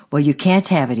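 loud angry retort from the driver; swearing driver. Retold or imitated. Rude truck driver swearing at the missionary, loud and angry. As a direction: bark it at her like a rude driver. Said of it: "he swore at me".

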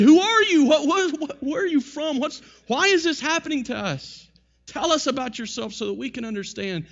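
high, loud urgent questions; frightened crew demanding answers in the storm; alarmed sailors shouting. Retold or imitated.

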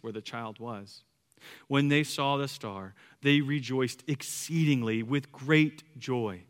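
measured, solemn Bible reading; scripture reading. Acted. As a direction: read the passage out with reverent phrasing. Reads scripture aloud to congregation.

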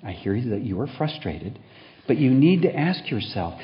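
patronize while sounding caring; condescending. Acted. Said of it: "the familiar tone of condescension disguised as understanding".

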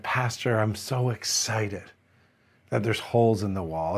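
softly imitating a moved elderly lady; kinda teary. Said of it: "she got actually kinda teary".

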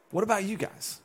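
quietly pressing, almost hushed; soft repeated question. Acted. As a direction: lean in and ask it softly. Jesus asks again, softly.

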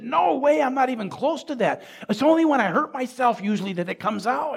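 high-pitched, insistent retelling of a protest; emphatic denial. Retold or imitated. Man assuring pastor he has changed, insistent denial.

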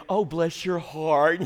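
lightly put-on Southern drawl, slowed down; Southern sympathy. Preacher imitating the Southern thing, slow mock sympathy. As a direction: draw it out in a mild mock-Southern way. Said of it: "do the whole Southern thing".

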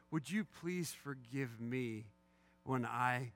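slow, earnest plea for forgiveness; measured, sincere apology; contrite confession. Shown as a demonstration. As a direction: own the fault, slowly and plainly. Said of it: "that's not contrition of the heart".

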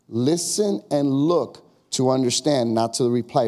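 "listen and look" drawn out, stressing "not"; slow emphatic. Shown as a demonstration. Preacher driving home the key point, slow. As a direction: lay each word down slowly.

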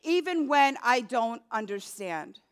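earnest pleading prayer, repeated like a plea; sample prayer. Shown as a demonstration. Pastor shows the congregation how to pray, pleading prayer. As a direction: pray it as a model for the flock.

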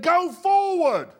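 high, loud, slow command; God's command. Acted. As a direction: boom out a divine order to go. God answering Moses.

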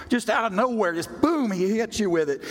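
sudden excited preacher's jolt; excited burst. Real, not acted. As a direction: hit them with the surprise. Preacher builds to a punch.

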